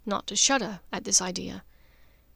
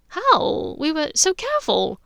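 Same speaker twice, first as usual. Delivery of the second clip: higher and louder, shocked; startled question; 7 semitones higher, 5 dB louder than usual. A narrator's reading. Andromeda startled that her sister knew. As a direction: burst out in alarm.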